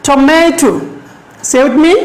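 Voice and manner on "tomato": Tomato with the middle syllable stressed and held. Shown as a demonstration. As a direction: lean on the "ma" in Tomato. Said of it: "কোথায় জোর দিচ্ছি".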